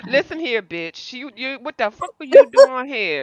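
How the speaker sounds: heated furious angry voice. Acting out what should have been said to the woman in the driveway: mock angry confrontation. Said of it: "I'm sure you didn't say it so calmly like that".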